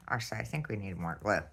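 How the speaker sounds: talking around a pin held in the lips; pins in mouth. Real, not acted. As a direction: mumble through a mouthful of pins. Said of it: "I have a pin in my mouth".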